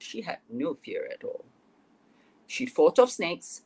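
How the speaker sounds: dramatic storybook reading with lifted key phrases; story narration. A narrator's reading. Author reading her Little Red fairy tale to listeners, dramatic narration. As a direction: read the tale aloud, punching the phrase openings.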